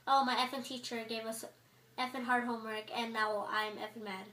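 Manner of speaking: mock sweary gripe in an everyday pitch; cussing complaint. Shown as a demonstration. Student overdoing cuss words about a teacher, casual mock griping.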